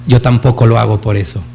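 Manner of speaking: plain gentle first saying of the line; gentle smiling reply. Retold or imitated. Mother Teresa answers the reporter, smiling gently. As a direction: say it kindly, with a smile. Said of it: "sonríe y le dice".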